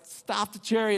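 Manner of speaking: loud call to halt the chariot. Retold or imitated. Eunuch calling out to the driver, loud. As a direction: shout it out to stop them.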